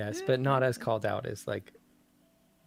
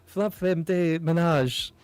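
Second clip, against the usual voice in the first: said boldly and higher; confident, less hesitant; 6 semitones higher, 7 dB louder, slower than usual. Shown as a demonstration. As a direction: commit to it, no hesitation. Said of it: "like, what, less hesitant".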